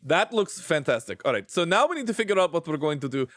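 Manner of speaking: lingering put-on Russian accent. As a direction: carry the Russian accent into ordinary chat. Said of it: "Why am I still doing the Russian accent?".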